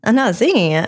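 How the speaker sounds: laughing off the request, firmly; firmer refusal. Real, not acted. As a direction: dig in and refuse again. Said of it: "Sing it".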